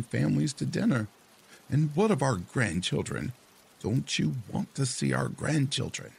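high, whiny nagging wife voice. Acted. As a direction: complain like a nagging old wife. Wife complains to husband.

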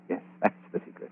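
a fast, soft conspiratorial whisper; whispered secret. Acted. Killer whispers his secret to Betty.

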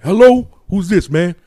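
slow put-on phone voice; imitated phone answerer. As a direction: answer warily as the cousin's brother. Cousin's brother answers the phone.

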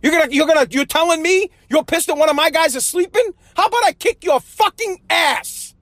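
dad snapping back in a half-acted rage; imitating angry dad. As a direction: play his fed-up father threatening the complainer. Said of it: "That's what my father would be like".

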